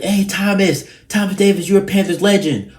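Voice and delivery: high, loud yell across the arena; retold yell. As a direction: call out to the player, high and loud. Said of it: "and I yelled".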